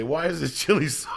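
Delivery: hushed, breathy whispered wonder; whispered question. Retold or imitated. Asking about the strange chili, in a whisper. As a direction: whisper it like a secret. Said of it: "I used to eat it and say".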